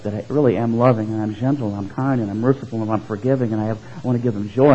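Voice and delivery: tender. Retold or imitated. Preacher voicing God's gentle love, soft and tender. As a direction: ease down gently on each quality.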